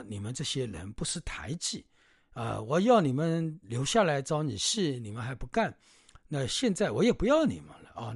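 a touch of an irritated scolding; mild anger. Retold or imitated. Hostess scolding the monks for refusing, mildly angry. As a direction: scold them as the offended hostess, lightly. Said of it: "那个女主人就很生气".

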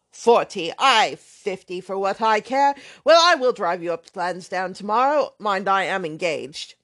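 put-on brash, offhand young man swearing lightly; lightly voiced loud young rake; blustering braggart.

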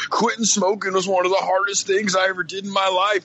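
preachy ex-smoker. Retold or imitated. Co-host mimics a listener's preachy quitting advice. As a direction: lecture like a proud ex-smoker. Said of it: "all kinds of fucking messages like that".

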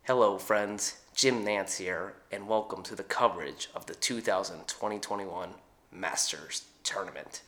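a hint of a soft-spoken golf broadcaster; Jim Nantz impression. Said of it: "Uh, Jim Nantz, so I'm gonna first do, uh, golf".

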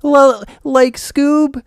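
mocking high-pitched cartoon voice; just push your own voice way up high; Shaggy. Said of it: "he made his own voice higher".

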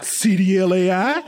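high, slow disbelieving question; incredulous. Real, not acted. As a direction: ask in amused disbelief.

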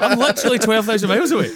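loud, high exclamation breaking with laughter; retold amazed disbelief. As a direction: exclaim it in gleeful incredulity. Retells own amazed reaction to insult.

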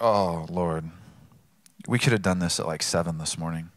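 a sleepy father pushing back at God; weary protest. Retold or imitated. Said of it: "And I'm just like".

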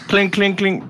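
lightly chanted clink sounds; clinking armour. Acted. Game master imitating armour on the move, light clinking. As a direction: imitate metal footsteps clinking along.

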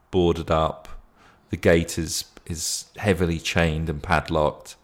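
game master narration. A narrator's reading. Game master sets the scene.

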